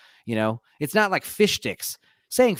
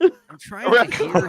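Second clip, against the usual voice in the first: louder, slow, Minnesota twang; Minnesota accent; 5 semitones higher, 7 dB louder than usual. Pretend. Friend mocks the failed accent as a Minnesota accent. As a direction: stretch it out like a Minnesotan. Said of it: "That was like Minnesota".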